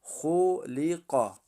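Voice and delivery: خلق slowly, with thick خ and ق; heavy خ and ق in خلق; heavy Kha and Qaf. Shown as a demonstration. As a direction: make both خ and ق in خلق heavy. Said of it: "حرف خا و قاف".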